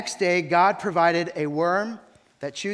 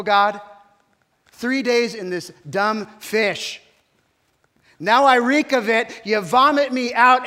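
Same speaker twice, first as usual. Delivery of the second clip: louder and higher, climbing to a shout; an indignant prophet shouting up at heaven; building rant; 5 semitones higher, 11 dB louder than usual. Acted. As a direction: pile up the complaints until you're yelling. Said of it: "watch Jonah's response".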